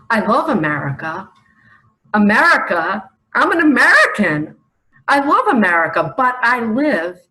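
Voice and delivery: loud, fast, fervent declaration; loud fervent proclamation; proclaiming loudly. Real, not acted. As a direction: shout your love for the country. Proclaims love of America.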